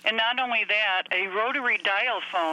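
phone-line sound from a rotary phone; rotary landline phone. Real, not acted. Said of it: "I'm talking to you on a landline".

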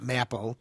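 maple mispronounced as "mapple"; short-A maple. Shown as a demonstration. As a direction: say maple to rhyme with apple. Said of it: "We know it's maple".

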